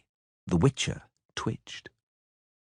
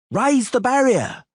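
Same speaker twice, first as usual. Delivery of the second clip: loud, much higher, slow command; shouted order; 7 dB louder than usual. Acted. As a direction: bark it to the guards. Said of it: "shouted to the halberdiers".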